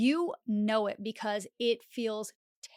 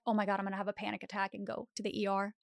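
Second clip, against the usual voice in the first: rushed panic babble; 3 semitones lower, 6 dB quieter, much faster than usual. Acted. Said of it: "not this, like".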